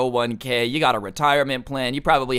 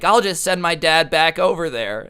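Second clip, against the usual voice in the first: higher-pitched retold threat; pissy ex-girlfriend; 4 semitones higher, 4 dB louder than usual. Girl threatening her ex with her dad, pissy. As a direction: toss it out as a mock huffy threat. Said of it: "she starts getting pissy".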